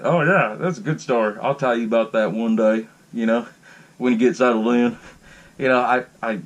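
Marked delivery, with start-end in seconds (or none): 0.0-5.0 hammed-up southern country accent; Judd Crandall. Neighbor promising a story about the path, imitated southern accent. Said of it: "that's when he busts out the accent".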